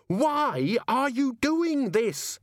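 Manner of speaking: high, slow, anguished scream. A narrator's reading. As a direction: scream the question in rage. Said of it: "Susan screamed".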